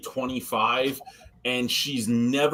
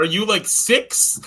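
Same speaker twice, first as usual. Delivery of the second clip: mock disbelief; 7 semitones higher, 4 dB louder, slower than usual. Scolding coworker for childish sticker prank.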